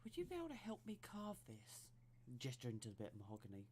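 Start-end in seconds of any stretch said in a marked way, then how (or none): 0.0-1.9 in-character voice. Acted. Player speaks as her character.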